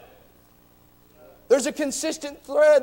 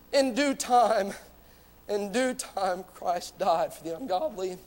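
hushed; 8 semitones lower, 10 dB quieter than usual. Real, not acted. Preacher drops to a hush.

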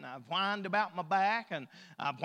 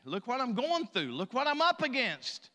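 high, loud hammed-up complaint; whining to God; 5 semitones higher, 4 dB louder than usual. Preacher plays a believer griping to the Lord, whining to God. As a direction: build a mock tirade of self-pity. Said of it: "Lord, I can't quit whining".

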